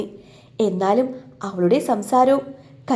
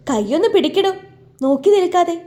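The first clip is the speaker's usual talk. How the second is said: impatient order; 6 semitones higher than usual. Acted. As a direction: snap at him to help. Snapping at idle friend. (അക്ഷമയോടെ ഉറക്കെ ആജ്ഞ)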